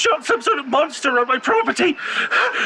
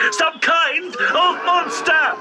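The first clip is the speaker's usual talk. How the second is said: slow yell; much slower than usual. Acted. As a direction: drag out the shout at the intruder. Farmer yelling at trespasser.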